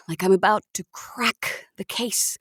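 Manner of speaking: hushed, secretive whisper to the listener; breathy stage whisper; conspiratorial whisper. Acted. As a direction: whisper it like a man plotting in a hospital bed. Patient's conspiratorial opening monologue.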